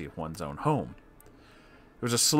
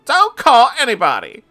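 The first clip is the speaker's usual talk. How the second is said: high, loud put-on shriek; yelling; 13 dB louder than usual. Customer storms out, shrieking at the manager. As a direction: bellow it in a high falsetto. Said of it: "yelling out".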